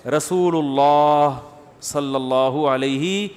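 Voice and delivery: very slow, drawn-out رسول اللہ; reverent and slow. Shown as a demonstration. Mufti teaching the most beloved title, very slow. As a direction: stretch رسول اللہ out with love. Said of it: "تو تمیز سے بولا کریں".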